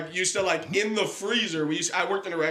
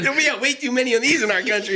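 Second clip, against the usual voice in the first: higher, fast mock Jewish accent, fully committed; committed rabbi accent; 7 semitones higher, 3 dB louder, faster than usual. Told to commit, the teller redoes the rabbi in a hammed-up Jewish accent. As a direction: lean into the hammed-up rabbi accent and keep it going. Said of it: "commit, commit, dude".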